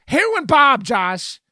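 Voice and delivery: loud, high-pitched protest; exclaimed insistence. Real, not acted. Co-host presses the point about Hackers, loudly insistent. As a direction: belt the name out at your co-host.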